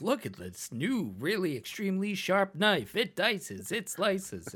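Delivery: upbeat pitchman selling a knife; infomercial. Retold or imitated. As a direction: hype it like a TV salesman. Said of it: "infomercial commercials back in the day where they'd be like".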